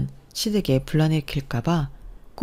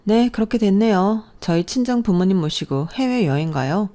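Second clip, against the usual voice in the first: higher, showy daughter-in-law bragging; smug boasting; 4 semitones higher than usual. Acted. Elder sister-in-law bragging about Guam to mother-in-law, smug. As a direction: flaunt the trip with a condescending lilt.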